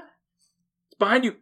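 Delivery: slow, spooky "it's behind you"; panto warning. Pretend. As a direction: warn the hero like a panto villain's cue.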